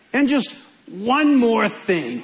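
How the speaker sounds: lightly voiced TV detective with a slow delivery; a hint of a detective's drawn-out afterthought; slow down for a detective's catchphrase; Columbo. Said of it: "that's Columbo".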